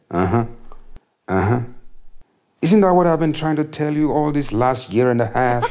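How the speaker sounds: lightly voiced wife, told-you-so; a hint of a smug wife; wife's voice. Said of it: "and she said".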